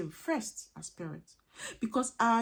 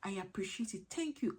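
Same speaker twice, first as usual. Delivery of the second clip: gracious thanks; 4 semitones higher than usual. Shown as a demonstration. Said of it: "We should learn to say".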